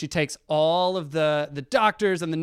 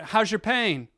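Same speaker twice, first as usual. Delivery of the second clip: higher and louder, upbeat bedside cheer; a doctor cheerfully coaxing a mute patient, upbeat; bright coaxing doctor; 5 semitones higher, 4 dB louder, slower than usual. Retold or imitated. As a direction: cheerfully coax a bored patient.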